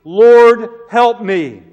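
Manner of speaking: high, loud begging cry; desperate plea. Acted. Woman at Jesus' feet pleading loudly for help. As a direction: throw yourself down and beg. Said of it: "and she pleaded".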